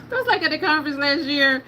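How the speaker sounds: normal talking voice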